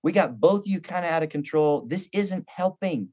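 a hint of a sweet wife; soothing wife. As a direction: settle him down kindly. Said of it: "she would say".

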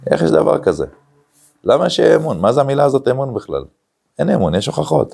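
high, scornful rhetorical challenge; mock the word trust from up high; mocking skeptic. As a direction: sneer at the very idea of trust.

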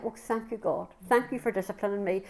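quiet, grateful murmur to God; softly thanking God for his correction; soft thankful prayer. Retold or imitated. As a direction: hush it like a private thank-you. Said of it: "And I've started to say".

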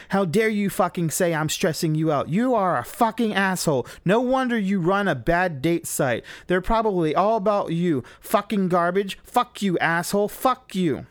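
high, loud screaming rage at him; furious yelling. Retold or imitated. Willa screaming at her boyfriend lost on the road, furious yell. Girlfriend keeps raging in car.

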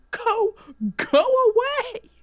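high, stretched-out calling; urgent shooing. Acted. Tammy Jo waves Herschel away, high and urgent. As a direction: drag out each word, calling far off. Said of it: "gesticulating wildly".

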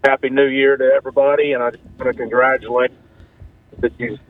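caller's line breaking up; choppy, dropping phone line; bluetooth cutting out. Real, not acted. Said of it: "you're breaking out there".

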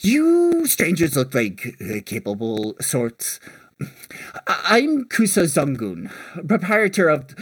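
lightly voiced older kobold merchant; apologize, then make a sales pitch, lightly in character; older kobold proprietor. Kobold seafood seller recruiting strangers, lightly acted merchant pitch. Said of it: "The older one looks at you and goes".

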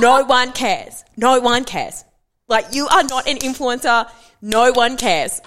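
loud, slow, fed-up ranting; exasperated shout. Real, not acted. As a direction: hammer every word, slowly. Ranting about fake influencers.

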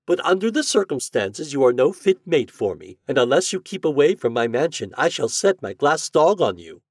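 high, loud, imperious lady's voice; threatening rebuff in a high feminine character voice; haughty lady. A narrator's reading.

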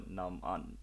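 "Nam-un" sounded out in two parts; phonetic reading. Shown as a demonstration. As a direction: say "Nam-un" as NUM-un, syllable by syllable. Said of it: "then be like".

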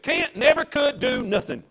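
slow, drawn-out folksy saying; lightly voiced father's firm rebuke; father scolding his kids, slow and firm; Dad's saying. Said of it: "but he said".

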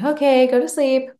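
exasperated bedtime order; firm command. Retold or imitated. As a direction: put an end to it. Mum orders child to sleep.

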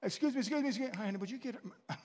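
mock impatient diner calling the waiter; hammed-up hungry customer waving down staff; an impatient diner calling over the waitress. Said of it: "say to my wife".

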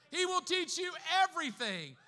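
shouted high and loud, every word hammered; joyful preaching shout; full-force preaching shout. Real, not acted. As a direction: proclaim it at the top of your voice. Shouted repeat of verse.

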